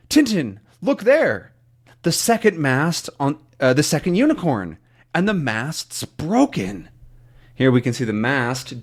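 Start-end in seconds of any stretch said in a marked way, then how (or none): 0.1-6.9 Haddock pointing. Acted. Haddock spotting the broken mast.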